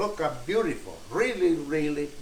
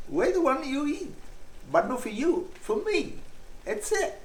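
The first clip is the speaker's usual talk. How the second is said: playful tease; 9 semitones higher, 3 dB quieter than usual. Real, not acted. Playful teasing, keeps taste.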